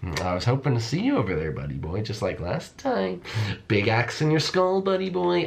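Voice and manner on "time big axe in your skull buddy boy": menacing taunt. Pretend. Villain hunter taunting hiding player.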